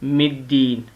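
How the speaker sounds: मिद्दीन with a clear i after म; meem with zer. Shown as a demonstration. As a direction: say मिद्दीन, not मद्दीन. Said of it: "मीम ज़ेरदार मिद है". (मिद्दीन में म पर ज़ेर, साफ़ इ की आवाज़)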